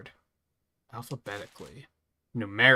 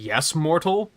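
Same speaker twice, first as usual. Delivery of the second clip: haughty god voice; 7 semitones higher, 9 dB louder, slower than usual. Acted. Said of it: "He's just like".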